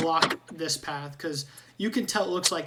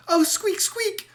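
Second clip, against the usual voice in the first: much higher squeaky rat voice, squeaks between words; squeaky rat Ratrick; 8 semitones higher, 6 dB louder than usual. Acted. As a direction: chatter like an eager little rat. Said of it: "and he'll go".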